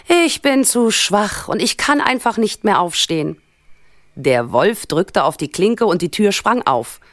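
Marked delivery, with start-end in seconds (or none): 0.1-3.4 lightly voiced old woman, pitched up; a touch of feeble old lady; frail grandmother. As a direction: plead weakness as a sick granny. Sick grandmother cannot rise.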